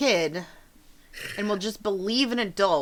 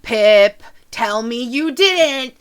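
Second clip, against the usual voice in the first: loud, slow, rising plea; pleading mother; 7 semitones higher, 8 dB louder, slower than usual. Acted. Mother begging her son to deny it, loud and slow. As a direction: beg him to deny it.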